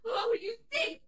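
high, broken sobbing laugh; hysterical sobbing. Acted. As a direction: cry out in disbelief and grief. Host sobs at killer.

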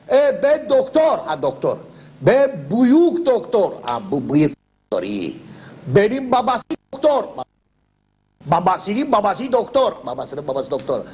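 slow, proud broken Turkish; pompous foreign doctor. Acted. Quack doctor boasting to the patient, slow and proud. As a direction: boast like a self-important quack.

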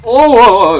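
sudden loud high startled cries; real fright, yelping loud; startled yelps. Real, not acted. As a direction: jump out of your skin. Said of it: "어, 깜짝이야".

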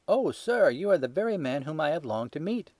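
high, eager, pleading; eager cry. A narrator's reading. Little man crying out in relief to Holmes, eager. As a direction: grab at your last hope. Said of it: "cried the little fellow".

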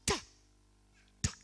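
loud, high, sustained sermon delivery; full-force preaching. Acted. Pastor proclaiming resurrection to congregation, loud preaching. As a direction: proclaim it to the whole church.

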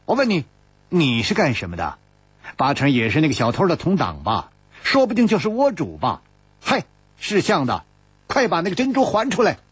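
high, fast, accusing demand; a loud, demanding challenge. Acted. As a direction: press him loudly, eyes glaring. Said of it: "金灵芝的声音更大了".

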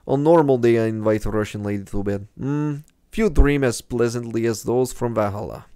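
light put-on Russian accent reading a game character; a hint of a Russian guide voice. Gamer reading the dream guide aloud in a mild Russian accent. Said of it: "my Russian accent sounds a lot more like Gru".

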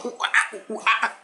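high, soft imitation of monkey hoots; monkey noise. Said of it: "make some monkey noise like this".

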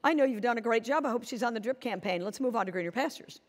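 easygoing reassurance to a trusted agent; breezy, kind. Shown as a demonstration. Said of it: "Now, mine was".

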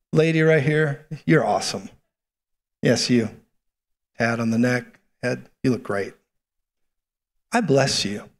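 measured, earnest prophecy over one person; calm, solemn pronouncement; personal prophetic ministry. Real, not acted. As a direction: speak a blessing directly over them, unhurried. Prophesies over a woman in audience.

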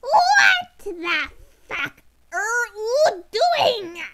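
loud laughing outburst, slowing on the rest; cracking up while asking; laughing disbelief. Real, not acted. Listener reacts to absurd story.

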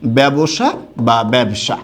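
ব্যবসা slowly as "bæbosha", then "bæbsha"; two pronunciations demonstrated. Shown as a demonstration. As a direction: give ব্যবসা in three syllables, then in two. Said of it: "এরকম লিখব". (ধীরে দুভাবে ব্যবসা উচ্চারণ)

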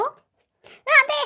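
drawn-out high wail of dismay; real panic as the slime goes wrong; dismayed cry. Real, not acted. Slime mishap while crafting.

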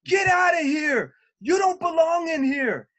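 high, loud mock yelling at intruders; imitating a union rep screaming at visitors to leave; retold screaming. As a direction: shout them out of the room as the angry rep. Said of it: "he started screaming at the top of his lungs".

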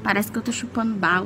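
swollen cheek, talking around it; after wisdom teeth. Real, not acted. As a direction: speak with a puffy swollen face. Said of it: "A minha cara tá inchada".

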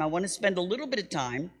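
fast whisper of "I wanna spend a little bit of time"; hushed, quick, unvoiced repeat; whispered aside. Shown as a demonstration. Same words repeated as whisper.

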